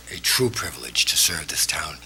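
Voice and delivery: fighting to keep it together on privilege; choked up. Real, not acted. Retiring councilman thanking the town at his last meeting, choked up. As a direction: voice catching, holding back tears. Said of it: "I promised myself I wasn't gonna get emotional".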